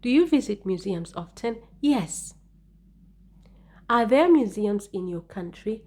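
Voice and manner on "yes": Yes. pitched high, then falling; intonation on Yes. Shown as a demonstration. Teacher answering her practice question, emphatic intonation on Yes. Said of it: "you should use intonation".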